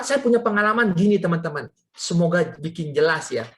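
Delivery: ordinary delivery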